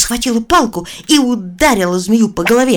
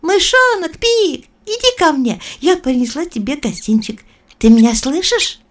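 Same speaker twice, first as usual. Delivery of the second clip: put-on calling girl; 8 semitones higher, 4 dB louder than usual. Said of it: "позвала мышонка".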